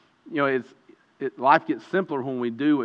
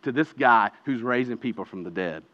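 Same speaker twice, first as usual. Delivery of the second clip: a hint of a scheming priest, lower and softer; lightly voiced high priest; 6 semitones lower, 4 dB quieter than usual. Preacher voicing the high priest's plot, lower and softer. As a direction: murmur the plot, a touch darker. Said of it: "he says".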